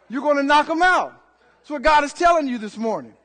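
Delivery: rousing sermon climax; emphatic preaching. Real, not acted. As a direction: drive the promise home to the congregation.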